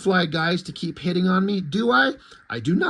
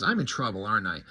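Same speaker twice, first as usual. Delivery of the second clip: much lower, soft dread; quiet; 8 semitones lower, 6 dB quieter, faster than usual. Acted. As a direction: drop low and quiet, sensing trouble. Ballistic realizing danger.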